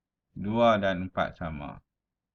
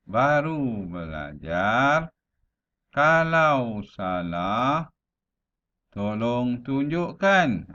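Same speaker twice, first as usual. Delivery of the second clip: "baru belajar", stop, "Kalau salah", stop, "tolong tunjukkan"; slow phrases, halting after "belajar" and "salah"; recital with pauses; 2 semitones higher, 4 dB louder, much slower than usual. Shown as a demonstration. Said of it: "itu yang dimaksudkan dengan jeda".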